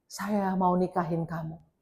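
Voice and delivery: slow, soft, drawn-out proposal; quoted online suitor. Retold or imitated. Pastor retelling a scammer's proposal, slow mock suitor. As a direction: propose softly and slowly, imitating a suitor. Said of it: "Terus dia bilang ini".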